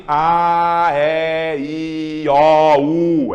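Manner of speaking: A, E, I, O sounded with open mouth; open vowel demo. Shown as a demonstration. Teacher showing oral vowels, mouth wide open. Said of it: "Quando a boca abre".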